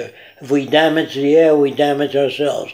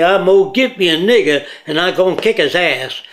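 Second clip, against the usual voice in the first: lightly imitated American Southern accent; 3 semitones higher than usual. Speaker mimicking an uneducated Southerner, Southern accent. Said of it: "So when you're a Southerner".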